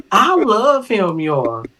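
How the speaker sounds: drawn-out, high-pitched declaration of love; slow gushing affection. Real, not acted. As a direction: stretch out love adoringly, high then falling. Stretched gushing interjection.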